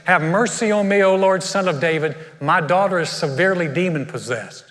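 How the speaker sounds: measured, solemn Bible reading; scripture reading. Acted. Preacher reading scripture to the church, measured and solemn. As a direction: read the passage out to the congregation. Reads the Bible passage aloud.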